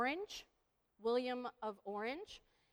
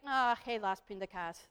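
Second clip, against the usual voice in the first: resigned oh-well; 4 semitones lower than usual. Acted. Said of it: "if you say to somebody".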